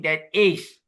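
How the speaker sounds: pointed emphasis on "is"; emphatic stress on IS. Shown as a demonstration. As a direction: stretch and raise "is" in "that is". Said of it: "is being emphasized by the word yeva".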